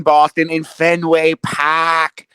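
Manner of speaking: put-on slow, hammy Boston accent. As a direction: stretch it out like a Bostonian. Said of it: "that was a terrible Boston accent".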